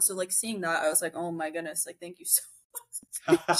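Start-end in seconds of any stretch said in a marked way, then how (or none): 1.2-3.6 laughing. Retold or imitated. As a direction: laugh through the thank you. Retelling delighted reaction, laughing.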